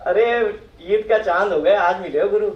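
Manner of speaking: mildly sarcastic mock greeting; lightly put-on sarcasm. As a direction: imitate a client's teasing, sarcastic welcome. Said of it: "आपने बड़ा sarcastic वे में".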